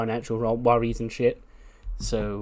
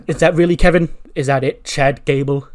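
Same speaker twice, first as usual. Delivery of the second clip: affronted wrestler; 3 semitones higher, 9 dB louder than usual. Acted. Gable objects to his introduction.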